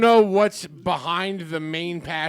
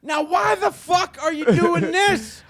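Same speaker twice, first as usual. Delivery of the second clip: high, slow, shouted through laughter; refreshed mock preacher shout; 11 semitones higher, 5 dB louder, slower than usual. Pastor returning refreshed to yell at the flock, laughing shout. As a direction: come back swinging like a rested preacher. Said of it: "come back refreshed and rejuvenated and be like".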